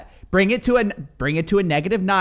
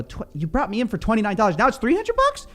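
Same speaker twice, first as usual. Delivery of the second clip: disbelief; 5 semitones higher than usual. Retold or imitated. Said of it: "I go".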